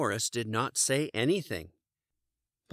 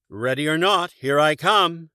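loud called-out ready or not; yell; 5 semitones higher, 7 dB louder than usual. A narrator's reading. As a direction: call it out across the woods.

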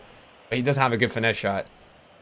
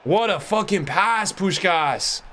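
slowed, higher hype over the pass; hyped shout; 5 semitones higher, much slower than usual. Real, not acted. Streamer hyping a great pass to chat, excited. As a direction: savour each word, fired up.

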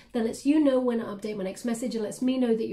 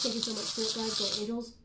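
hushed thanks; 6 dB quieter, faster than usual. Real, not acted. Reader thanks Spirit Guides and Guardian Angels, hushed aside. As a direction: say it under the voice, as a private thanks.

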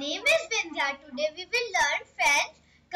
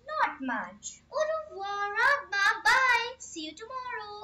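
higher, sing-song role-play dialogue; acted dialogue; 5 semitones higher than usual. Sisters role-play a French chat for learners, sing-song and higher.

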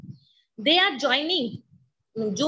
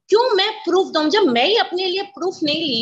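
indignant; 3 semitones higher, 5 dB louder than usual. Real, not acted. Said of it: "indignant rhetorical question".

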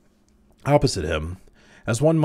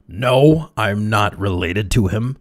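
loud, raised, emphatic denial; angry growl; 3 semitones higher, 7 dB louder, slower than usual. A narrator's reading. Crowley denying the relation to Cowden, growled. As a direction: bite out a forceful no, drawn out. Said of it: "managed to growl".

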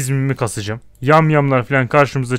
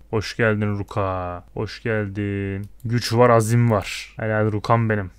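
warm welcome; 4 semitones lower, 4 dB quieter, slower than usual. Real, not acted. Welcoming the new companion.

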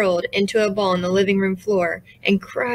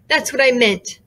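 snapping; 4 semitones higher than usual. Acted. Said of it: "snapped Boo".

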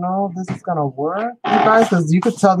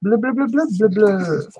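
bubble speech; 3 semitones higher than usual. Pretend. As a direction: babble like a fish blowing bubbles. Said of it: "a whole bubble language for the fish".

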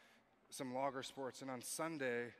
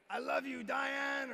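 higher, louder shouted declaration of love; mock love shout; 9 semitones higher, 6 dB louder, slower than usual. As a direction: yell it across the room to Diane. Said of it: "maybe you're gonna voice".

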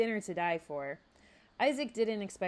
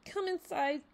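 lightening the mood; 11 semitones higher, 3 dB louder than usual. A narrator's reading. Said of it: "trying to lighten the mood".

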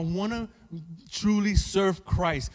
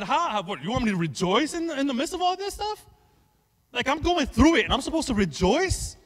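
incredulous sufferer; 4 semitones higher than usual. Acted. Acting out a sufferer's disbelief.

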